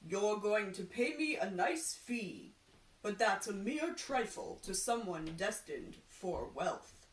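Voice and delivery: a hint of a solemn seer; lightly voiced prophet, grand and sure; fortune teller voice. Fortune teller flattering the carpenter, lightly voiced seer.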